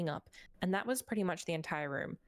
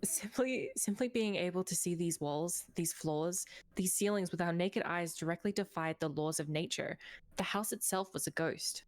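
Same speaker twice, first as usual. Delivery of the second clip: measured storyteller read; story narration. Acted. Reads game story narration.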